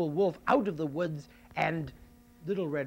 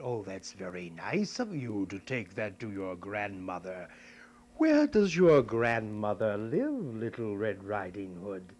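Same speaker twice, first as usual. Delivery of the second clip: lower, lightly sly wolf; a hint of a scheming wolf; 4 semitones lower than usual. Wolf asking where grandmother lives, lightly sly. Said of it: "And he said".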